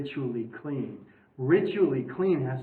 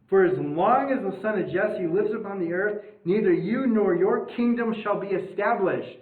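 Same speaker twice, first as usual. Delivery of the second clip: Saul's angry insult; 3 semitones higher, 3 dB louder than usual. Retold or imitated. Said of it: "so verse thirty".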